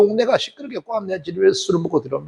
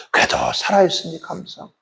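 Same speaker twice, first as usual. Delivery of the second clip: ordinary talk, nothing marked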